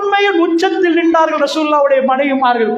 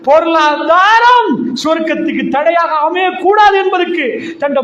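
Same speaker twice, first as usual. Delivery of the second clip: forceful preaching; 4 semitones higher than usual. Acted. Preacher tells congregation of the Prophet's strictness, forceful preaching. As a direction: drive the point home, stretching key words.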